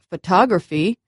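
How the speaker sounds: "photography" with the second vowel stressed; "photography", second syllable stronger and longer. Shown as a demonstration. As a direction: lean on the "tog" in "photography". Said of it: "I stressed the second vowel".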